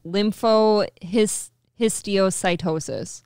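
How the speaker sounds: slow "histiocytosis" in separate chunks; careful, drawn-out "histiocytosis"; sounding out. Shown as a demonstration. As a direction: break "histiocytosis" into his-tee-oh-sy-TOH-sis. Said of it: "there's little chunks to the word".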